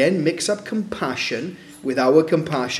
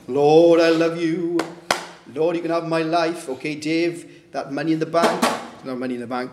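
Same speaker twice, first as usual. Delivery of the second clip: mock worshipper. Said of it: "And he said".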